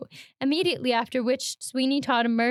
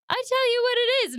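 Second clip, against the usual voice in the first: annoyed; 12 semitones higher than usual. Acted. Customer annoyed by the laugh.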